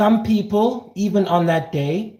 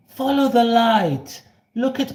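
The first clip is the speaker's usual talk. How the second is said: soothing guide; 5 semitones higher than usual. Acted. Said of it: "You must say".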